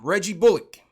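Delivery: mock emcee calling up the next act; playful announcer. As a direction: call the name out big, then draw out the invitation. Host calls player up like announcer.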